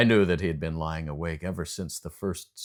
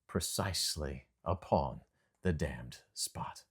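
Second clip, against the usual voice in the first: menacing whisper; 5 semitones lower, 9 dB quieter than usual. A narrator's reading. Narrator's menacing aside.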